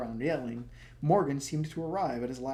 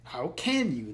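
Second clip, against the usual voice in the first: demanding; 5 dB louder, slower than usual. Acted. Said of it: "the prince demanded".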